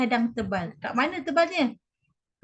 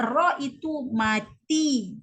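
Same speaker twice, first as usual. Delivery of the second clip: slow teaching demo; much slower than usual. Shown as a demonstration. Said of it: "Yang kedua".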